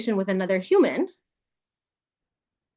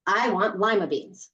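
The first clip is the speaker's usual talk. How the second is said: demo statement; slower than usual. Shown as a demonstration. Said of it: "think of something you absolutely don't hate".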